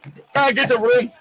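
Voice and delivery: put-on upper crust accent. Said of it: "upper crust".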